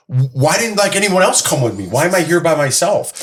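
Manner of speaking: lightly exasperated, pitch lifted; mock whiny complaint. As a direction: relive it as a "why me" gripe. Acted complaint to herself while retelling.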